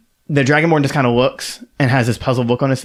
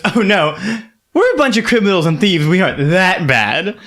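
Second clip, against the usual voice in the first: higher, mock-innocent protest; auctioneer voice, playful; 6 semitones higher than usual. Auctioneer brushing off a joke about thieves, mock innocent. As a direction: laugh off the criminal joke lightly. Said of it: "and she goes".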